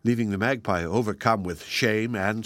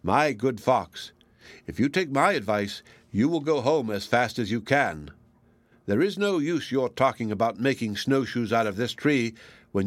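wise, measured advice. Acted. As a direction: lecture him calmly, a sage. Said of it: "looking very wise".

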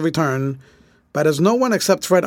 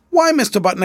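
higher-pitched mild exclamation; exclaiming; 7 semitones higher, faster than usual. A narrator's reading. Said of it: "exclaimed Miss Susie".

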